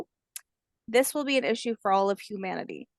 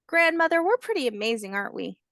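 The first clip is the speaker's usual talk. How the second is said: proud hatchling; 3 semitones higher, faster than usual. Acted. Hatchling boasts to grandmother, lightly childlike. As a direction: say it like a proud little one.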